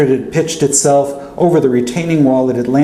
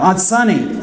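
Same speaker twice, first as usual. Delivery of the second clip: shouting; 8 semitones higher than usual. Retold or imitated. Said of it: "I shouted".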